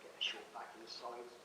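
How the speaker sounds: a soft-spoken sergeant major, not a bark; gentle sergeant major. Retold or imitated. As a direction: coax it softly, hand on the shoulder. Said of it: "put their hand on your shoulder and say".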